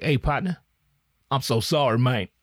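lightly voiced rapper, humble and apologetic; rapper impression. The rapper apologizing to the podcaster, lightly voiced humble rapper. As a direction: play the rapper sliding into the DMs, a touch sheepish. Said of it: "I could do a rapper impression".

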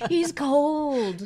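laughing through the repeat; cracking up on the punchline. Real, not acted. Friend repeating the joke, laughing out loud.

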